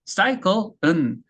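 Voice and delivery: usual speaking voice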